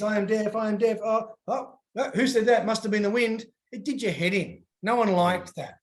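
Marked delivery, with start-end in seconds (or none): 0.0-3.5 put-on higher, sing-song teasing kid; mock pretend deafness. Dad imitating kids mockingly pretending not to hear. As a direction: fake ignoring someone, playfully. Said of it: "even as kids".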